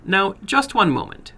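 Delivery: lightly voiced little man stopping him; foreign little man.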